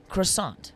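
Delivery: croissant said the French way, kwah-SAHN; croissant in French style, nasal ending; French pronunciation. Shown as a demonstration. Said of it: "the authentic pronunciation of individual words".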